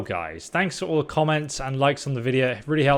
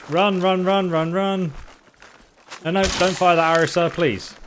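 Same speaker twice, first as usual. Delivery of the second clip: being chased; 8 semitones higher, 4 dB louder than usual. Real, not acted. Shot at by archers while fleeing.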